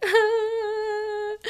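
high crying wail, hammed up; a comic cry of despair; mock helpless wail. Alone with the poles, mock wailing in despair. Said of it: "and I, like, went".

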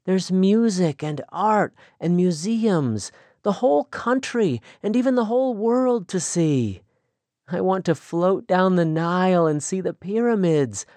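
put-on young woman longing for the world, excited. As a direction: pour out her dreams with growing eagerness. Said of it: "there was excitement in her voice".

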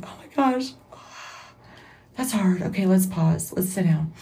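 high, dismayed oh my gosh, then settling; a touch of overwhelmed surprise; mild dismay. Retold or imitated. Podcaster retelling her daunted reply to the Lord, high then calming. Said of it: "I'm like".

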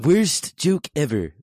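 mock groan. Real, not acted. Groaning at own pun.

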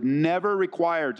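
firm stress on "never"; emphatic NEVER. Real, not acted. Preacher telling wives not to submit to abuse, "never" stressed. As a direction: land on "never" as the key word. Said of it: "I emphasize that word".

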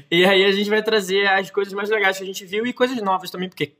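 swallowed wrong way; words catching in the throat; choking. Real, not acted. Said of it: "Ai, engasguei".

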